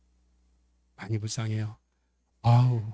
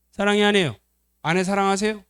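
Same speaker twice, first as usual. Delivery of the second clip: usual speaking voice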